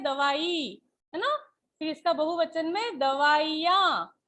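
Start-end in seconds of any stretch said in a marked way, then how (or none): 0.0-0.8 दवाई with the final ई held long. Shown as a demonstration. Teacher to pupils, दवाई with a long ई. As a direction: stretch the last ई of दवाई. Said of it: "उसका उच्चारण भी हम बड़ा कर रहे हैं".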